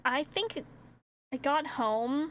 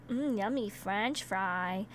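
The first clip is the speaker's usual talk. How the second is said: savouring; 4 semitones lower, slower than usual. Retold or imitated. Savouring a fry, retold.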